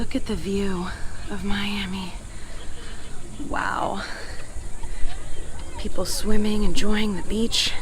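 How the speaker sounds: soft whisper at the view; awed whisper. Real, not acted. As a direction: breathe it out in wonder.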